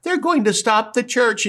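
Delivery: high, amused voice of God; God nudging Jesus, high and gleeful; God mocking. God tells Jesus about the plotters, high amused voice. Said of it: "he looks at Jesus and says".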